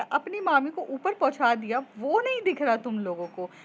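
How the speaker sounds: you only yell at me; upset girl complaining to friends; aggrieved complaint. Acted.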